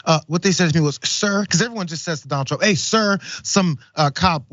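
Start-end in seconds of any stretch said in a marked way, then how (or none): 1.0-1.4 high, mock-reverent "Sir"; a mocking echo of the fawning cop; imitating Trump. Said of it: "He says it just like Donald Trump says". 2.6-3.2 high, mock-reverent "Sir"; a mocking echo of the fawning cop; imitating Trump. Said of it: "He says it just like Donald Trump says".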